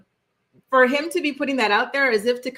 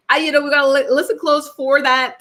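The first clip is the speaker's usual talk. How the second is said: excited; 6 semitones higher, 6 dB louder than usual. Real, not acted. Excited about accent comment.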